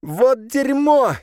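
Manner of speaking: outraged shout, high and drawn out; furious curse. A narrator's reading. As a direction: Soliman swearing in outrage. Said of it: "выругался Сулейман".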